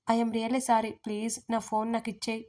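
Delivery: ordinary delivery, nothing marked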